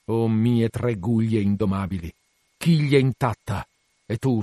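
lightly dramatised tragic captain, grand and defiant; doomed Acab. Acted. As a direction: declaim a last speech, swelling then sinking. Voices Acab's last speech to ship and whale.

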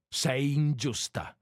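"Sei ingiusta" slowly, leaning on each word; pressing each word. A narrator's reading. Lover rebuking her, "Sei ingiusta" slow and emphatic. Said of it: "riprese egli pigiando sulle parole".

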